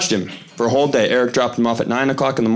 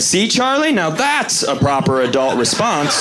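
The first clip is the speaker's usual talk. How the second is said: smug punchline; 3 semitones higher than usual. Retold or imitated.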